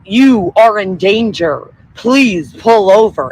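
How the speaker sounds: slow, flat robot loudspeaker; like a machine telling you to stop. Retold or imitated. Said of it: "it's like a robot voice".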